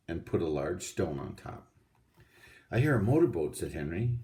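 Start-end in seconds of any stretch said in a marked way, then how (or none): 2.7-3.6 excited call. A narrator's reading. Henry excited at boat sound.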